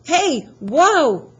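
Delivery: high, loud startled shouts; yelling in alarm. Acted. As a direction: yell as the bus swerves. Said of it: "the driver yelled".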